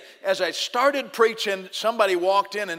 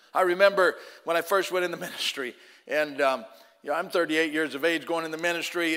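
ordinary delivery

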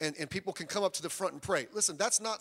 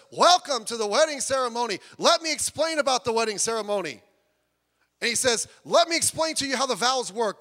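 louder, higher preacher voice; pompous pastor; 5 semitones higher, 5 dB louder than usual. Acted. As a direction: hold forth like a self-important pastor.

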